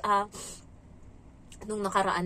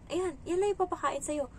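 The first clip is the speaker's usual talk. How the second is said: raised, different voice for a mean boss; stingy employer; 7 semitones higher than usual. Retold or imitated. A hint of the employer dismissing the maid's meal. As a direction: hand it over like a stingy boss.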